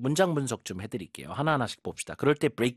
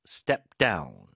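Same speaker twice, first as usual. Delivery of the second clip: "down" stronger than "Step"; stress on down; 7 semitones lower than usual. Shown as a demonstration. Teacher models step down for students, stress on down. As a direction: lean on "down", keep "Step" light. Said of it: "뒤에 힘 줘보세요".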